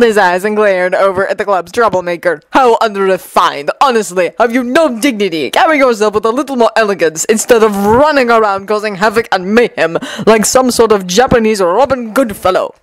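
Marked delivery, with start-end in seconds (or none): 2.5-12.7 lightly voiced pompous scolding; haughty, irritated scholar. Taro scolds the club's troublemaker, mildly pompous. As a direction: lecture with refined disdain.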